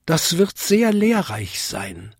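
high, polite little-bell voice; Vinzi tinkling. A narrator's reading. Little bell answers the big bell, high tinkling. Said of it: "bimmelte Vinzi".

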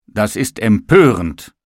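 the table loudly protests the baker's work; indignant cry. Acted. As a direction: call it out in indignation. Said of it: "rief der Tisch".

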